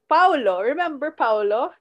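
lightly put-on Italian accent on "Paolo". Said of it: "I have to say that the accent".

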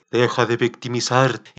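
the voice you hear in your head telling you off; stern inner voice. Shown as a demonstration. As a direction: scold the listener to stop self-pity. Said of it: "imagínate mi voz diciéndote".

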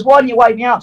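retold blame hurled at the wife, high and mock-shouted; mock yell at wife. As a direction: snap at the wife in a put-on high voice. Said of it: "yell at the missus".

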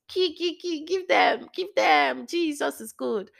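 high-pitched excited outburst; overly excited. Real, not acted. Speaker carried away about what God revealed, overly excited. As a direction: let it burst out high. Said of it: "I'm getting overly excited".

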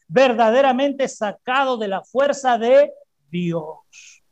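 emphatic preaching proclamation. Acted. Preacher proclaiming the verse to the congregation, emphatic. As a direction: proclaim it slowly, word by word.

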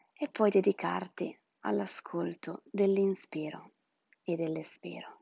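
breathy whispered meditation guidance. Acted. (sussurro rilassante da spa)

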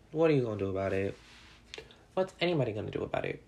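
fast, cocky challenge; defiant. Real, not acted. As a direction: throw it out like a dare.

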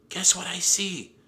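high, loud excited call. A narrator's reading. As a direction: announce a thrilling discovery. Annie excitedly spots a whale.

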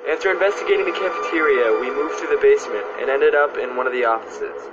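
calm, even voice-over narration; documentary narration. Acted. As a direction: narrate it like a ghost show.

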